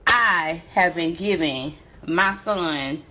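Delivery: real upset, fighting tears; near tears. Real, not acted. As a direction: talk slowly as if about to cry. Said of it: "I'm on the verge of tears".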